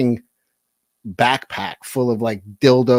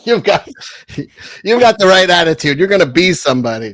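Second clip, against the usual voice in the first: mock praise; 6 semitones higher, 6 dB louder than usual. Mock cheering them on.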